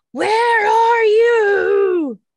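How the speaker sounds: very loud, very high, booming roar of rage. Voicing a creature hunting an unseen monk: bellowing in rage. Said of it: "he's just gonna kind of bellow and rage".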